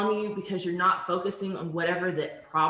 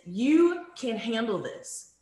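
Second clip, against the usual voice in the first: encouraging; 3 semitones higher, slower than usual. Shown as a demonstration. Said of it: "an example of an encouraging statement is".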